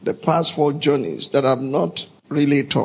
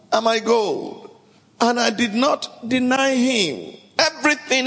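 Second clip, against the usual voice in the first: aggrieved king; 5 semitones higher than usual. Acted. King of Israel addresses elders.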